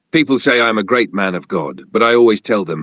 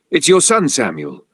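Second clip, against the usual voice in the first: crying outburst; 6 semitones higher than usual. Acted. Mother bursts out crying as she names her son. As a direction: voice leaps high as she breaks into tears. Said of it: "his wife burst out crying".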